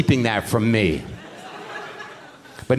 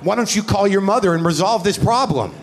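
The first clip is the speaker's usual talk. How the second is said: higher, pushier comic rant; retold angry tirade; 6 semitones higher than usual. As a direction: tear into the lonely heckler from the stage. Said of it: "I'm like".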